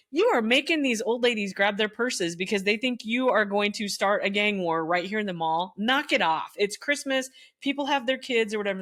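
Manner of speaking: retold stern telling-off; stern scolding. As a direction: tell them off like a no-nonsense teacher. Scolding teens in mall.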